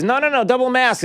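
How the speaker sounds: a hint of a dismissive doctor; brushing off the idea in a mild mock voice; mock Fauci. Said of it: "who in January says".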